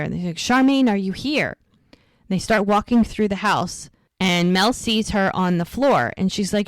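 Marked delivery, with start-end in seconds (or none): 0.4-1.6 higher-pitched mock call for a missing friend; retold calling out. Friends searching the house for Charmaine, retold calling out. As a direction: call out as if searching, without really yelling. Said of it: "they're yelling for her".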